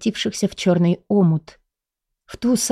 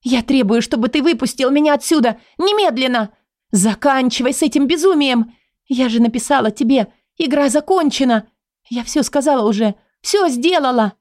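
higher, fast, furious demanding; angry demand; 4 semitones higher than usual. Acted. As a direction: snap out every demand. Heroine demands release angrily.

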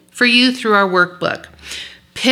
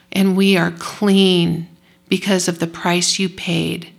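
closing prayer. Acted. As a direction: pray for the ladies, gently.

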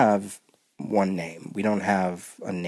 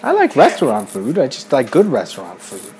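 louder, higher insistent denial; indignant protest; 4 semitones higher, 8 dB louder than usual. Real, not acted. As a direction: protest it loudly, stressing like. Loud protest contradicting mother.

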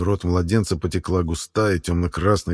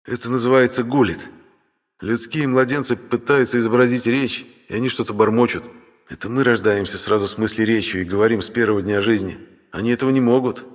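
brother's slightly higher lecturing voice; dismissive dragon brother; 4 semitones higher than usual. Acted. Brother explains human babbling to sister, lightly dismissive.

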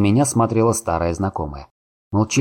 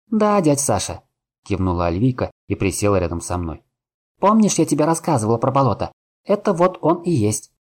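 put-on young woman voice; 4 semitones higher than usual. Кивнула Альвика.

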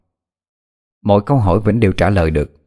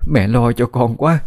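tearful asking; 3 semitones higher than usual. Acted. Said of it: "rồi khóc lóc hỏi".

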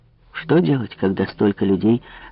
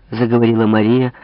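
plain reading voice

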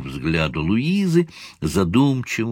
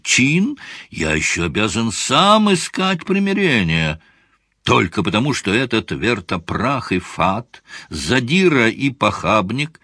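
angry tirade. Acted. Briqueville's furious tirade.

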